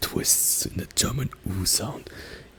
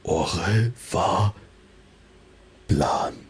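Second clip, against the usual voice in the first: slow, deliberate self-intro in German-flavoured Japanese; unhurried German-accented Japanese; much slower than usual. Shown as a demonstration. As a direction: stretch the words like a German learner. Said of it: "this would be".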